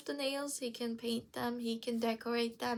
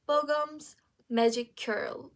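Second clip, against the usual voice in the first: slow and louder, each word set apart; "Bogum's magic curl" spaced out clearly; separated words; 3 semitones higher, 5 dB louder, slower than usual. Shown as a demonstration. First meaning, words set apart.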